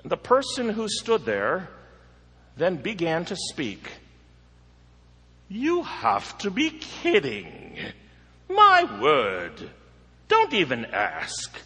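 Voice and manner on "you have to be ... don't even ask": lightly voiced haughty man, mostly louder; proud scornful man. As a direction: sneer it like a self-made snob. Proud man refusing at door.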